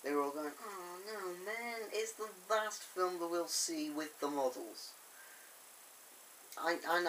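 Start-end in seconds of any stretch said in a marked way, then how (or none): 0.7-4.9 mock lament. Mimicking fans knocking the last model film, mock dismay. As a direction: imitate disappointed fans moaning.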